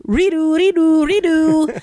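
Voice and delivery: put-on high, loud kids' chant in a South Asian accent. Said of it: "in a South Asian accent".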